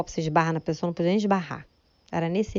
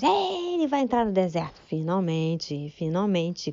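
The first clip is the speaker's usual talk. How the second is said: mock joyful praise; slower than usual. Wife praising God over her husband, joyful then relieved. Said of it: "comecei a glorificar a Deus".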